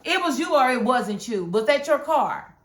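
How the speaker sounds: loud, sassy retort; mock lawyer calling her bluff; sassy lawyer quote. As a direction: tell her off, loud and sure. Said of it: "And my lawyer said".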